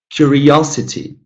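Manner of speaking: "curiosity" with OS stressed, then falling; teacher modelling "curiosity" with third syllable strongest. Shown as a demonstration. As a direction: hit the OS in "curiosity". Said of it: "the third one is stressed".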